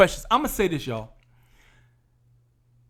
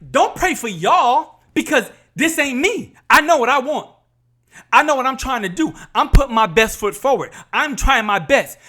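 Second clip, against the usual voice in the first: higher, insistent self-defence; retold protest; 4 semitones higher than usual. Couple answering church people who pray for them, protesting. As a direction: push back emphatically, as retold.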